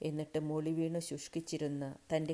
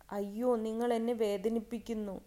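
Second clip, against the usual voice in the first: high, raised, acted wail of pain; sobbing cry; 6 semitones higher, 6 dB louder than usual. A narrator's reading. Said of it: "തേങ്ങിക്കൊണ്ട് വിളിച്ചു പറഞ്ഞു". (തേങ്ങിക്കൊണ്ടുള്ള വിലാപം)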